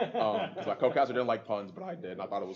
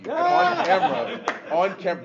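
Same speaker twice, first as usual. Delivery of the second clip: laughing; 9 semitones higher, 11 dB louder, slower than usual. Real, not acted. Laughing while telling embarrassing story.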